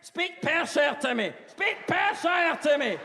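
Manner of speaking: high, loud, slow mock pleading; hammed-up high female cry; girl in ecstasy. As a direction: beg loudly as an aroused girl. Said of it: "One girl one night's like".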